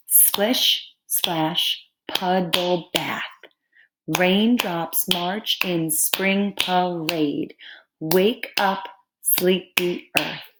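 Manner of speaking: slow haiku recital with pauses; poem reading. Shown as a demonstration. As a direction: read it out slowly, word by word. Reads example poem to class.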